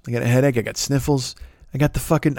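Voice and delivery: ordinary delivery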